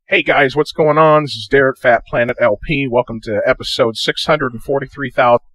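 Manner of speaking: pitch-shifted with electronic artifacts; distorted, processed intro playback; slightly warbly electronic intro; electronic distortion. Shown as a demonstration. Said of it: "Hear that electronic just distortion?".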